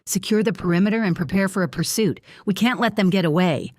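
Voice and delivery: steady urgent voice. Acted. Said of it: "his voice steady yet urgent".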